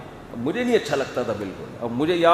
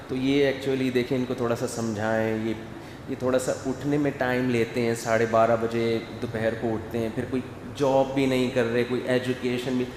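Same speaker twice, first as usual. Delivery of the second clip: softer, meek father complaining about his son; imitating a father who is afraid to anger his grown son; timid hushed father; 3 semitones lower, 5 dB quieter than usual. Father timidly complains about his son to the mufti, softer and hushed. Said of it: "باپ بہت دھیمے دھیمے بات کر رہا ہوتا ہے".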